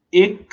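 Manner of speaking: "excellent" split apart with a long hissed s sound in the middle; pronunciation model. Shown as a demonstration. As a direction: stretch the consonants in "excellent" right out before finishing the word. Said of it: "vous dites". (« excellent » découpé, avec un long s au milieu)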